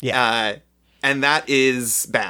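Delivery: ordinary talk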